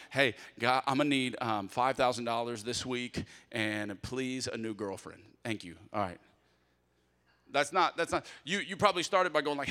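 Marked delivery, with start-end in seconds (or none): 0.1-6.2 offhand, ordering-up prayer, trailing off; mock demanding prayer. Shown as a demonstration. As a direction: rattle off a wish list to God. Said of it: "do you roll in like".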